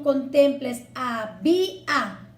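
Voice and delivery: "había" said slowly in separate syllables; syllables apart. Shown as a demonstration. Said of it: "en vez de que con".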